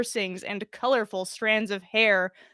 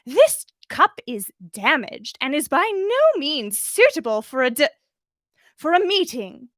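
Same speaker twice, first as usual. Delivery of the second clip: prim demand; 4 semitones higher, 4 dB louder than usual. Acted. Umbridge demands.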